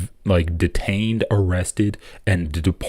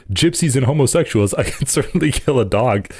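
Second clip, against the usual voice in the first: higher-pitched, mock-gleeful quote; beaming Hitler; 5 semitones higher than usual. A narrator's reading. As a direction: read it higher, as a beaming dictator. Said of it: "a beaming Hitler said".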